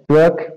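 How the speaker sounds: truck with the U sounding like O. Shown as a demonstration. Teacher explains U sounds like O in truck, modelled pronunciation. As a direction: say truck as \"trok\", open vowel. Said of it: "C U com som de O".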